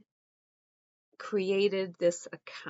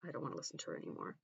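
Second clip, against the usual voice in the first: exasperated; 4 semitones lower, 11 dB quieter, much faster than usual. Real, not acted. Fed up with the clip.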